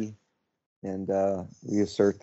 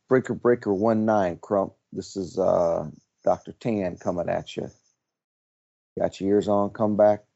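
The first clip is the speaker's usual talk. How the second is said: over CB radio. Pretend. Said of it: "You, you're very good".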